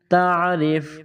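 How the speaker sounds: تعریف said slowly, final ف silent; pause form. Shown as a demonstration. Teacher repeating the pause form. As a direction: stop dead on ف. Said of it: "آخر والے حرف کو silent کریں گے".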